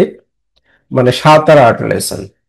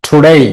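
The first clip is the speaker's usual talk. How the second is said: "today" with a quick "to" and strong "day"; teacher's model of "today" stressed on "day"; stress on second syllable. Shown as a demonstration. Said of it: "আর ডেটা হচ্ছে stress".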